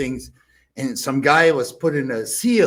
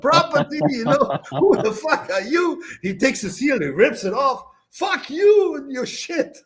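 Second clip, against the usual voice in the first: high, loud furious shouting; furious yelling; 11 semitones higher, 3 dB louder than usual. Retold or imitated. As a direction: throw him off the property. Franz throwing the bailiff out.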